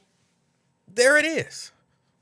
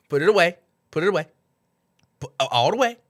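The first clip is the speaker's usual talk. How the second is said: louder amused repeat of the line; laughing, quoting; 2 semitones higher, 6 dB louder, much faster than usual. Real, not acted. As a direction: laugh while echoing her.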